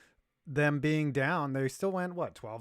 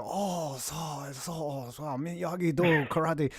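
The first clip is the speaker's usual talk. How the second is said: mock Asian accent; 5 dB quieter, slower than usual. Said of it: "I can do Asian".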